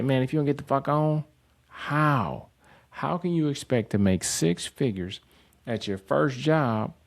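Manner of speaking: heated and exasperated, pushing every question; riled-up rant. Retold or imitated. Telling an entitled job seeker off, a heated rant. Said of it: "Anyway, I'm getting too riled up".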